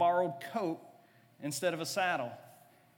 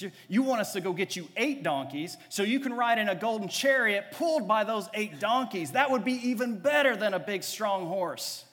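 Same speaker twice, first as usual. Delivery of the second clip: eager disciples; 4 semitones higher, 5 dB louder than usual. Acted. Disciples voiced, scheming a chariot.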